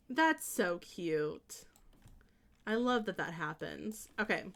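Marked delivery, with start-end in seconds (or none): 0.1-1.6 low, slow repeat of the coo; softened coo. Real, not acted. Streamer settling after gushing over twinning, low slow coo. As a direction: say it low and drawn out.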